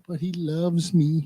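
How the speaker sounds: mock lovesick. Mocking a girl defending her boyfriend.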